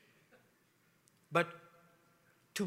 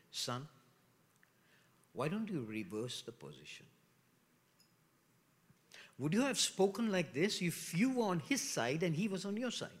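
gentle; 4 dB quieter than usual. Retold or imitated. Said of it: "he very gently said".

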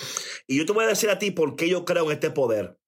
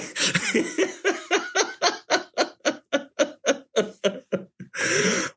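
high rising laughter; real laughing fit; long high laughing fit; 13 semitones higher than usual. Real, not acted. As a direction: cannot stop laughing.

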